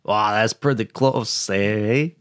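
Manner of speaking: a slow, deliberately bad French accent. Mocking Van Damme's accent for friends, a slow bad French accent. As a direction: drag it out in a hammed-up French accent. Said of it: "I tried to do, like, a really bad French accent".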